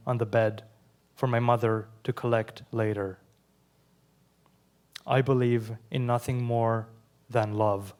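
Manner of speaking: measured, deliberate poem reading with pauses between lines; steady poetry-reading voice. Acted. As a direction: read each line as a poem, letting it land. Reads second poem aloud.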